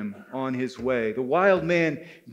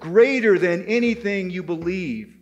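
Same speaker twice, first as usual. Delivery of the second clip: boastful wild man; 4 semitones higher, 5 dB louder than usual. Acted. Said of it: "the wild man said".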